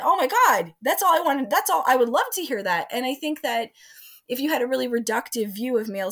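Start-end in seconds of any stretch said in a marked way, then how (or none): 0.0-2.9 put-on excited teen boy. Boy voiced, thrilled by girls' requests.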